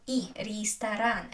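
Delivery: "и", then "ресторан" as rees-ta-RAN; unstressed е as и. Shown as a demonstration. Teacher giving the answer, "ресторан" with ee and stressed last syllable. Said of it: "The stress is on а".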